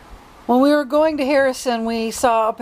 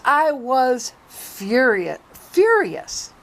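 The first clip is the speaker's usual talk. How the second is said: slow emphatic furious; 3 semitones higher, much slower than usual. Real, not acted.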